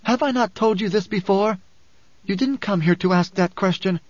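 high, impatient scolding; snapping. A narrator's reading. Alia berates the questioner for doubting, snapping. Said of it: "Alia snapped".

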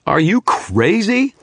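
high, loud, slow disbelief; stunned demand. Acted. Stunned wizard demands an answer from the shadow. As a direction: hit you, rising in shock. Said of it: "I demanded, stunned".

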